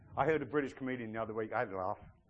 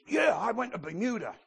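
higher-pitched attempt at an American guy; imitated American churchgoer; 6 semitones higher, 4 dB louder than usual. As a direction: play a guy reporting his trip, voice raised. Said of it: "No, he didn't sound like that".

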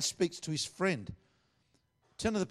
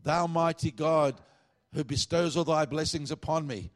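mock-formal, louder prayer voice; pompous prayer; 3 semitones higher, 4 dB louder than usual. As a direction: ham up the grand religious petition. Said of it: "didn't come before God and say".

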